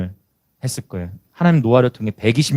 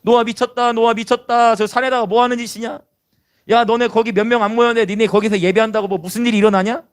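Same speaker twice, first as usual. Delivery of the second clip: high, taunting sing-out; acted scoffing with a needling question; mocking crowd; 7 semitones higher than usual. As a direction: jeer at them in a raised pitch. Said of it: "얼마나 조롱했겠어".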